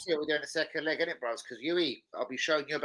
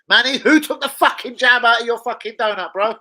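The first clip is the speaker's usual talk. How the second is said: 1 exasperated shout; 9 semitones higher, 11 dB louder than usual. Real, not acted. Mock-outraged rant to co-host.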